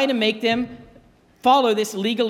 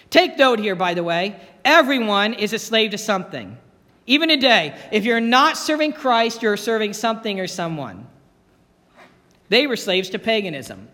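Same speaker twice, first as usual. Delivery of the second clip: preaching. Acted. Pastor preaching to congregation.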